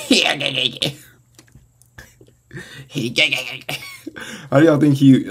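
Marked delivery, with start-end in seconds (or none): 0.1-3.8 rapid choppy cackle in a put-on voice; imitated odd laugh. Streamer guessing how this guy sounds, mock cackle. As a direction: mimic his stuttering "keh-keh" laugh. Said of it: "what do y'all think he sound like?".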